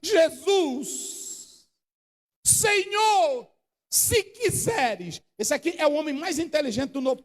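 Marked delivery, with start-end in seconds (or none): 0.0-5.2 crying out. Acted. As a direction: cry out to Jesus in anguish. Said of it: "e grita".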